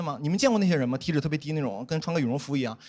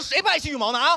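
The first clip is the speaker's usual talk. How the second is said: mild mock anger; 8 semitones higher than usual. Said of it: "我当时就火".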